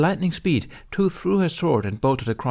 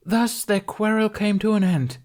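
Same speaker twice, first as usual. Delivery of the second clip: high, loud theatrical proclamation; grand stage declaration; 12 semitones higher, 3 dB louder than usual. A narrator's reading. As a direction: announce it like a ham actor on stage. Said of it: "Tooth interrupted".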